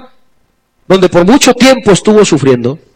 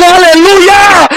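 astonished hallelujah; 8 semitones higher, much slower than usual. Retold or imitated. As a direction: cry out hallelujah in amazement. Someone sees wife standing.

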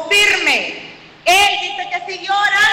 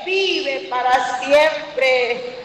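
bold reply; slower than usual. Retold or imitated. Daniel answers the king.

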